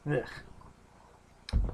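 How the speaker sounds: soft voiceless groan of disgust; disgusted ugh. Real, not acted. Reacting to a brutal death.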